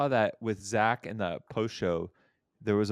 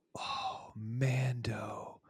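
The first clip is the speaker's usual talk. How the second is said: hushed, awestruck murmur under the breath; 3 semitones higher, 8 dB quieter than usual. Retelling a kid seeing the Mandalorian costume: imitating an awed under-breath mutter. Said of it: "under his breath, like he was, like, in awe".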